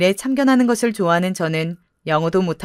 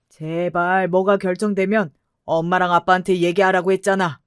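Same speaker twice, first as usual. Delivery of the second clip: stern father. Acted. Father questions daughter.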